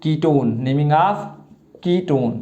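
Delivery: very slow, stretching the vowels of ketone; long held syllables with pauses between; drawn-out dictation. Shown as a demonstration. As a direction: say it as if writing each syllable. Teacher writes out the heading aloud.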